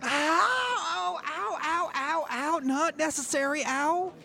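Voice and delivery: very high squealing cries of pain; pained yelps. Acted. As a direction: yelp like a burned kid. Kid burned by hot gun.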